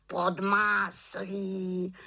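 high, slow jeering raven; mocking raven. A narrator's reading. Raven mocking the butter rain, high slow jeer. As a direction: drag out pod máslí mockingly. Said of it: "krákal havran".

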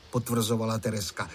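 ordinary delivery, nothing marked

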